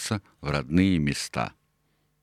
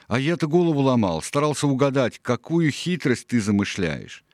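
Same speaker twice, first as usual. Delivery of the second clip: higher voice, marvelling at the trick; amazed exclamation; 7 semitones higher than usual. A narrator's reading. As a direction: exclaim it, slowing at the end. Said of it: "воскликнул он". (удивлённо, на повышенных тонах)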